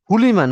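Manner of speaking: "হু" and "লিমান" joined as one word "হুলিমান"; wrongly merged word. Shown as a demonstration. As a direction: demonstrate the error "হুলিমান" without a break. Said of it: "হুলিমান একটা শব্দ দ্বারা".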